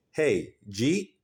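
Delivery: "Hey, Jeet" run together as one slurred word; Philly slurred greeting. Shown as a demonstration. Philly local asking a friend if they ate, slurred. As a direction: say "Jeet" for did you eat, with a rising tune. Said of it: "What I'm really saying to you is".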